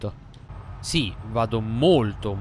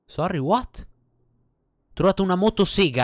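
surprised; 9 semitones higher, 5 dB louder than usual. Real, not acted. Finds a chainsaw.

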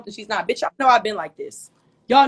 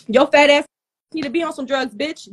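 angry outburst; 4 semitones higher, 4 dB louder than usual. Real, not acted. Angry rant at rival.

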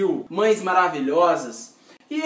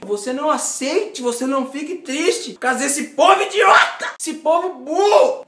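indignant mother; 5 semitones higher, 4 dB louder than usual. Retold or imitated. Mother rants about the schoolkids.

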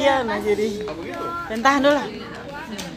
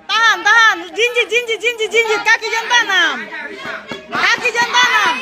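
gym coach. Real, not acted. Coach calling instructions during bout.

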